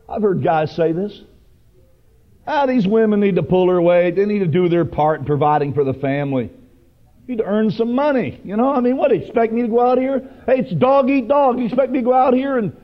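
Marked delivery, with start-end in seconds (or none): 2.5-12.8 higher, hurried mock grumbling; complaining husband. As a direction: imitate a husband griping about his burden. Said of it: "I hear men talking like that".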